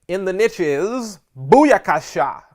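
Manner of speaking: hype shout. Acted. Hyped catchphrase shout.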